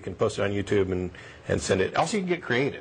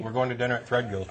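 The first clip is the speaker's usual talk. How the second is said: talking through a mouthful; words round a bite of food; mouth full; faster than usual. Real, not acted. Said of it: "I'm talking with my mouth full".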